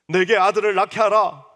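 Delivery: loud, pleading cry, stress on 하라; anguished demand. Acted. Rachel begging her husband for a son, anguished loud cry. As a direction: cry out 하라 like a wounded wife. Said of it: "상처받고 있는 라헬이 하는 말인데".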